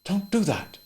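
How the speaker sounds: a mild nervous plea; nervously. A narrator's reading. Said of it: "Lee said nervously".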